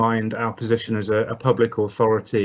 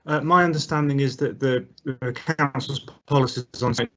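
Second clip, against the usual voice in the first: choppy, dropping call audio; breaking up; 4 semitones higher than usual. Real, not acted. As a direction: voice cutting out on a bad connection. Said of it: "Sorry, you're breaking up".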